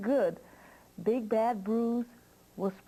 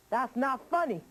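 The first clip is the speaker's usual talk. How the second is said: annoyed witch; 5 semitones higher than usual. Acted. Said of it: "she was so mad".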